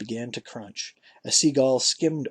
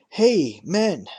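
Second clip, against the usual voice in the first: a louder call to the men; 5 semitones higher, 6 dB louder than usual. A narrator's reading. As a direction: call the men over, a bit higher. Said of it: "he cried".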